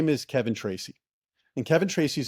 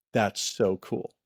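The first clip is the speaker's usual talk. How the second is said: awed; 3 semitones lower, much slower than usual. Retold or imitated. Awed by the first result.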